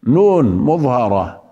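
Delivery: نون said with a short nasal hum; نون مظهرة بغنة قليلة; clear nun. Shown as a demonstration. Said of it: "فيها غنة".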